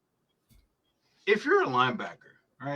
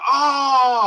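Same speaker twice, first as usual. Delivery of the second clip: mock groan; 11 semitones higher, 7 dB louder than usual. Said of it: "all of a sudden I hear".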